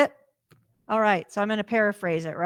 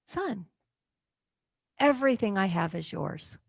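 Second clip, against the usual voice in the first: tender father. Retold or imitated. Father comforts jealous son.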